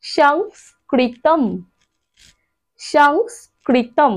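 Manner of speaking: সংস্কৃতম said very slowly, ending on a clear ম; final anusvara as m. Shown as a demonstration. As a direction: stretch সংস্কৃতম and close the lips on the last ম. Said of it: "অর্থাৎ". (শেষের অনুস্বর ম দিয়ে ধীরে উচ্চারণ)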